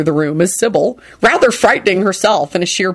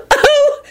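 gasping. Acted. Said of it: "she finally gasped out".

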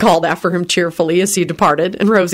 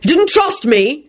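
scowling; 10 semitones higher, slower than usual. A narrator's reading. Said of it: "he scowled".

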